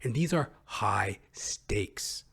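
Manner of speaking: slow dramatic whisper. Real, not acted. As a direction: breathe it as a grave secret. Dramatic hushed emphasis.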